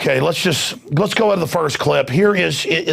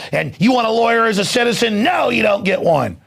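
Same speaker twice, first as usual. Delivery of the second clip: higher, mocking denial; mock official denial; 6 semitones higher than usual. Mocking the officials who deny a lawyer. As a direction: sneer it like a smug official. Voicing officials denying rights.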